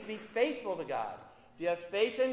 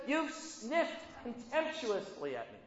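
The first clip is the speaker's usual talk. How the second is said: slow divine rebuke; 5 dB quieter, slower than usual. Acted. God rebukes the people.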